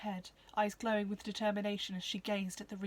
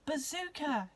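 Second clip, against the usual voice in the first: joyful; 6 semitones higher than usual. Acted. Joyful recognition of the bird.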